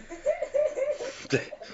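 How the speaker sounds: a short, high real laugh after the punchline; amused laugh at himself. Real, not acted. After his French gets called Portuguese, laughing high. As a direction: laugh at your own story.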